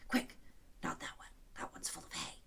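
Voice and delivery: soft urgent hush; hushed king. A narrator's reading. King hushing Haya over the bag, softly urgent. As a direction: hurry him along under breath. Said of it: "he whispered".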